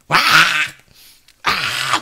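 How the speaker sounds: drawn-out demonstrated yell; pent-up scream. Shown as a demonstration. Preacher showing the urge to scream when furious, pent-up yell. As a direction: let out a mock frustrated scream. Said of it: "소리 지르고 싶은 막 그런 충동".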